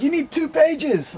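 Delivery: high, slow imitated African accent; crazy African accent. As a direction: spell it out slowly in a high mock African accent. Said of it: "they got this crazy African accent".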